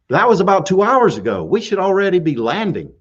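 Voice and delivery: retold mild indignation; acted-out, slightly irate objection; a little irate. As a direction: protest with a touch of irritation. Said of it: "I got a little irate".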